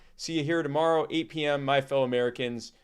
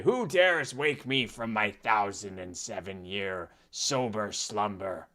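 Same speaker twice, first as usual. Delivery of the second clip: ancient rasping undead king; 2 semitones lower, slower than usual. Pretend. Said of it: "wake up and say".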